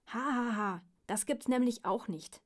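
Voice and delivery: mildly offended earthworm; mock laugh, then a miffed retort. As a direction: answer back a little huffily. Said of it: "antwortete der Regenwurm beleidigt".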